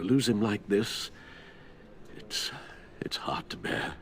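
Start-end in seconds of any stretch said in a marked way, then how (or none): 2.1-3.9 whispering. Acted. Grieving, voice drops to whisper.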